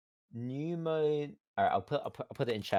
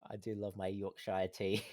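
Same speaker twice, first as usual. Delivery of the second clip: put-on British accent; 4 semitones lower, 5 dB quieter than usual. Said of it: "Such a British thing".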